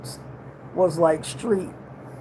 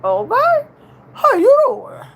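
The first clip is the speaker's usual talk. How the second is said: loud, much higher playful greeting; casual talk with family; 6 dB louder than usual. Shown as a demonstration. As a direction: holler it high, loose and casual. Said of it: "we talk whatever way we wanna talk".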